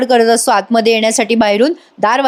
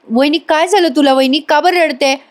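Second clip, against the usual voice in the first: concerned surprise; 5 semitones higher than usual. Retold or imitated. Dhanya worried for sister-in-law.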